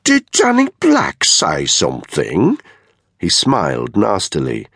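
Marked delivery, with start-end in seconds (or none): 0.0-2.6 slow, high, taunting question; mock-loud challenge, pitched up; exaggeratedly loud. A narrator's reading. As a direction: draw it out for all to hear. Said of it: "said in an exaggeratedly loud voice".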